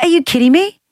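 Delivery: high-pitched disbelieving comeback; incredulous. Retold or imitated. Host answering the sister's teasing, incredulous. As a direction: shoot up high in mock disbelief.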